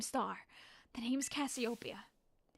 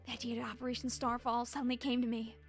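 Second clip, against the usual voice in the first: quiet boss monologue; 2 semitones lower, 4 dB quieter than usual. Acted. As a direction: read it like a calm mastermind. Reads boss dialogue aloud.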